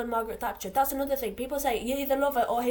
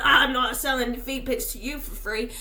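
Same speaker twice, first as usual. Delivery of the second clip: laughing mock retort; 7 dB louder than usual.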